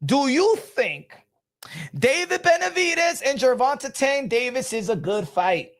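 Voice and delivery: measured question, spelled out for the listener; slow. Shown as a demonstration. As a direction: ask it slowly, with a pause midway. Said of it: "I think I said it slow enough".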